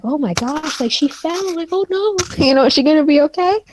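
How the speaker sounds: whisper-gossip like a crowd; murmuring onlookers. Acted.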